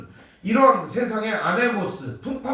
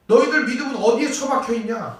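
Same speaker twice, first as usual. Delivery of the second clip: mild rebuke; 3 semitones higher than usual. Retold or imitated. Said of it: "이런 말이에요".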